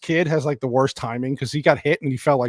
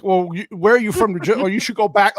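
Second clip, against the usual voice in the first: East Coast attitude; 4 semitones higher than usual. Retold or imitated. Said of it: "such a typical East Coast attitude".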